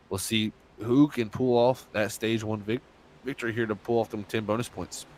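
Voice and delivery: talking through hiccups; hiccuping between words. Real, not acted. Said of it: "Sounds like you got the hiccups there".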